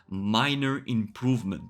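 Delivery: MINOR set apart and stressed; weighty stress on "minor"; emphasis on minor. Real, not acted. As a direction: lean deliberately on "minor improvement". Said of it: "I really want to emphasize on".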